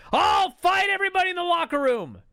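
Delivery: high, shouted wrestler challenge; ranting and raving. Retold or imitated. Jarrett challenging the locker room from the ring, raving high shout. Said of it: "he's just fucking ranting and raving".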